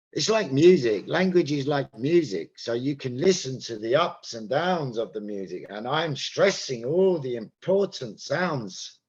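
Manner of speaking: key words like "music" and "stressing" punched with musical ups and downs; over-exaggerated stress. Shown as a demonstration. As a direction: exaggerate every important word such as "ups", "downs", "important". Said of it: "I've over-exaggerated there".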